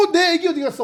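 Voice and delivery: high, startled, flustered motherly cry.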